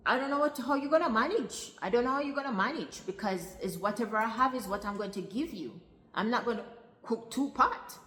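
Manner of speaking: high, loud imitation of a scolding mother; exasperated mother. Acted mother objecting to child's request.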